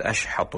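أشحط said "ash-hatu", hard t in place of d; mispronounced dal. Shown as a demonstration. Sheikh imitating non-Arab muezzins, mispronounced dal. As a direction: turn the h-d of ash-hadu into a harsher h-t in أشحط. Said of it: "ما يحسن نطق ال-، الدال".

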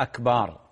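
"أكبر" said as akbaar with a long aa; lengthened vowel. Shown as a demonstration. Sheikh naming the muezzin's mistake, lengthened vowel. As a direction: stretch the last vowel of "أكبر". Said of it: "مد".

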